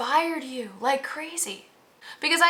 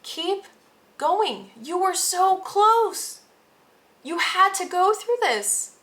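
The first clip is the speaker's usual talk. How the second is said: high, loud encouraging higher self; 8 semitones higher, 4 dB louder, slower than usual. Pretend. Higher self urging the reader to keep going: high, loud coaxing. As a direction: coax them on like their own higher self, high and loud. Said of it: "your higher self is like".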